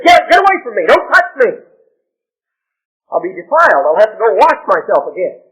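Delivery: a preacher acting out a Pharisee's loud revulsion; disgusted recoil. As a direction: shoo her off in loud disgust. Pharisee voiced recoiling from sinful woman.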